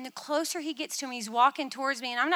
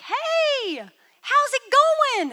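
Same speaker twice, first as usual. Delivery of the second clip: high, slow, easygoing greeting; casual breezy Jesus; 12 semitones higher, 10 dB louder, much slower than usual. Retold or imitated. Jesus arriving at a picnic, high breezy greeting. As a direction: greet like nothing is wrong at all. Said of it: "And he's like".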